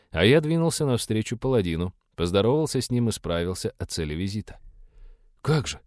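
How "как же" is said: puzzled rising question; surprised. A narrator's reading. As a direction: sound genuinely taken aback. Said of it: "удивился Август".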